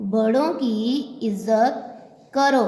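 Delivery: put-on slow, word-by-word dictation of "बड़ों की इज़्ज़त करो" for children to write. Shown as a demonstration. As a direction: spell it out slowly so the class can keep up. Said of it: "अब मेरे साथ लिखिए".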